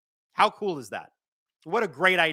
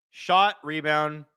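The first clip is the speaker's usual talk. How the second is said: "Shot, rebound" said very slowly and evenly; slow recap; much slower than usual. Real, not acted. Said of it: "Hayden, you weren't wrong".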